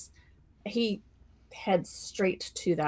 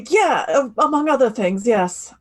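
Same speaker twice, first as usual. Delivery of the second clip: loud dry reply; 5 semitones higher, 10 dB louder than usual. Acted.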